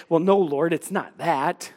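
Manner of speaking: an embarrassed admission, head hung; sheepish reply. Retold or imitated. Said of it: "We'd hang our heads and sheepishly say".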